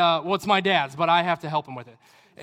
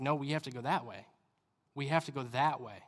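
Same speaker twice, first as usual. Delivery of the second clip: low, softly spoken plea; gentle urging; 4 semitones lower, 8 dB quieter than usual. Acted. Jesus to the reluctant kid, gently urging. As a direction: urge gently and quietly, lower voice.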